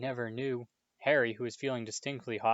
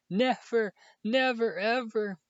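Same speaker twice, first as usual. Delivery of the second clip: much higher, louder wailing cry; wailing sobs; 11 semitones higher, 6 dB louder, slower than usual. A narrator's reading. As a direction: cry it out in despair. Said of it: "he wailed".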